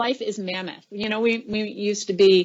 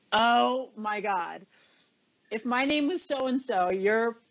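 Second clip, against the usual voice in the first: mock threat, joking; 2 semitones higher than usual. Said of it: "it was a joke".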